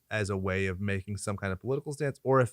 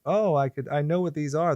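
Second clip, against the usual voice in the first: higher mock-discovery voice; imitating movie heroine; 5 semitones higher than usual. Co-host mimics heroine smelling roses, higher mock-wonder voice. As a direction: play her marvelling at it, pitched up. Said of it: "and she's like".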